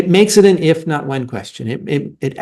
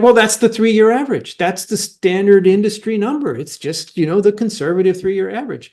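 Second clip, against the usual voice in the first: lightly mimicked company spokesman, pitched higher; imitating defensive companies; 6 semitones higher than usual. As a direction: echo their excuse in a raised voice. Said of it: "And, and they're like".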